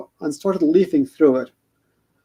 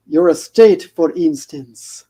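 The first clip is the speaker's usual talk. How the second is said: put-on Shelob's vague accent; 4 dB louder, slower than usual. Shelob greets Frodo in a lightly accented voice. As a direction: purr the greeting in a hint of a foreign accent. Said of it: "no idea what the accent was".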